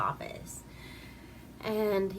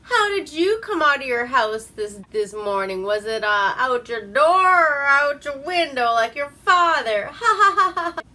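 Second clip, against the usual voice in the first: loud, high taunt that ends in a cackle; hammed-up jeering laugh; mocking laugh; 7 semitones higher, 10 dB louder than usual. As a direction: needle her, then crack up laughing. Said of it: "And he's like".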